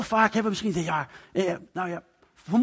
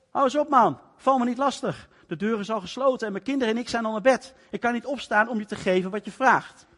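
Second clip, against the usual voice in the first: higher, mildly annoyed voiced refusal; annoyed friend; 5 semitones higher than usual. Woken friend in bed brushes off the caller, mildly annoyed and high.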